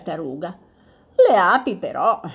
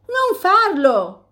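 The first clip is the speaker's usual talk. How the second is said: slow, higher, firm warning; stopping him; 11 semitones higher, 6 dB louder, much slower than usual. Acted. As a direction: hold him back with each word. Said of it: "lo fermò Tartaruga".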